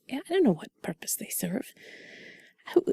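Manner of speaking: soft breathy whisper, close to mic; sultry narrator. Acted. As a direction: whisper it like sweet nothings. Whispered intimate chat about ocean.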